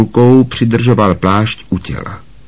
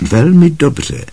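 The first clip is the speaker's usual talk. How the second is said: higher, pleased approval; smiling praise; 7 semitones higher, slower than usual. A narrator's reading. Lupin praises Harry's first success, smiling. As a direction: praise with a smile in the voice. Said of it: "pochválil ho s úsměvem Lupín".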